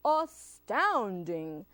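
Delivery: slow, drawn-out monster amazement; astounded Gruffalo. Acted. Gruffalo sees Owl flee from mouse, astounded. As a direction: stretch the middle syllable in wonder. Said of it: "said the Gruffalo".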